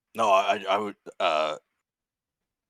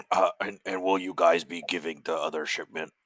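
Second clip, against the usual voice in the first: slightly lowered in-character voice; a hint of a put-on deeper voice; putting on lower voice; 3 semitones lower than usual. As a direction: try to make your voice sound lower. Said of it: "trying to make his voice sound lower".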